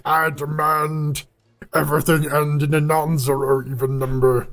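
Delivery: lightly voiced tech boss laying down the law; Steve Jobs impression. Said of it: "That's my Steve Jobs impression".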